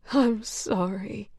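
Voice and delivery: slow, breaking into tears; tearful. Acted. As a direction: apologize as tears come. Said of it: "dissolving into tears".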